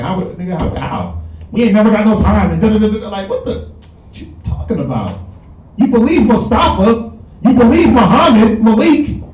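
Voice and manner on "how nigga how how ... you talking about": incredulous scoff. Retold or imitated. Wife voiced doubting her husband.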